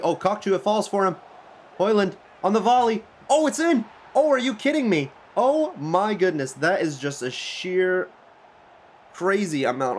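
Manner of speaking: high, loud goal call that stretches out; excited goal shout. Real, not acted. Commentating his own goal, high excited shouting. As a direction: yell it like your striker just scored.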